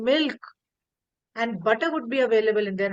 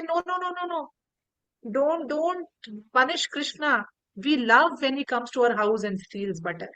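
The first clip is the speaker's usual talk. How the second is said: pleading gopis. Retold or imitated. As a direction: beg her not to punish him.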